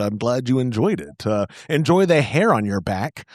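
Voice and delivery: usual speaking voice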